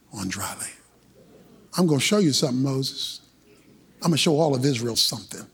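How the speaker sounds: a hint of the Lord, steady and grave; God speaking to Moses. Preacher voices God's reply.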